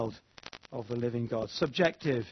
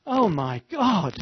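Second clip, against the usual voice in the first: exasperated exclamation; 5 semitones higher, 4 dB louder, slower than usual. Pretend. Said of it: "might come out as".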